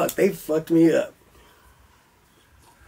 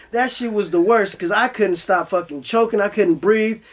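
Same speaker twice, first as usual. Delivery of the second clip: ordinary talk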